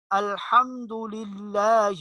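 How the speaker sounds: الحمدللہ slowly, with a light thin لام; الحمدللہ, لام kept fine, not heavy; slow recitation of الحمدللہ; thin lam. Shown as a demonstration. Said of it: "یہ زیر ہے، اس لیے اس کو موٹا نہیں پڑھنا".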